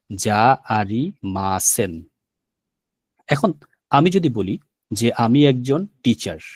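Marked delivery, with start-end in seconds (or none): 0.1-1.9 যা আরিমাসেন stretched out slowly; slow demo. Shown as a demonstration. Teacher repeats the negative form very slowly for students. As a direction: say যা আরিমাসেন slowly so they catch it. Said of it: "negative হবে যা আরিমাসেন".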